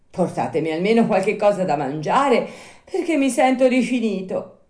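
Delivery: high, loud puppet plea; pleading Pinocchio. Acted. Puppet stuck in door begging the snail, high plea. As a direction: beg for rescue in a high voice. Hungry Pinocchio begs for food.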